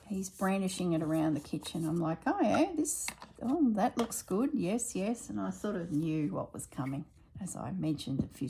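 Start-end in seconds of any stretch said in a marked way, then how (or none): 2.3-5.3 mock eager. Mimicking husband's eager enthusiasm.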